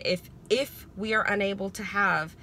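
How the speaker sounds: even, careful, unhurried wording; calm and measured. Retold or imitated. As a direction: say it calmly, choosing each word. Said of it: "I said it just like that".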